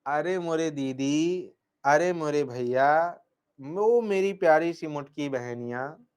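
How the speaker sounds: sing-song coaxing of big sister and brother; mock pleading. Teacher teasing his students in a slow, pleading tone.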